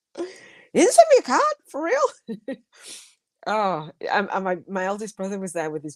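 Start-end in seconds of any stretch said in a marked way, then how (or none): 0.2-2.6 play-acted, very high, swooping, horrified disbelief. Retelling learning that she got no card, retelling horrified disbelief. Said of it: "I was horrified".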